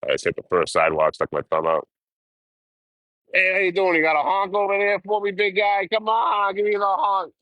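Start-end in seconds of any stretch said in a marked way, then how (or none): 3.3-7.3 high, hammed-up friendly hollering voice; calling to drivers. Hitchhiker on the sidewalk coaxing a driver to honk, in a high hammed-up call. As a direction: pitch way up and sweet-talk the passing truck.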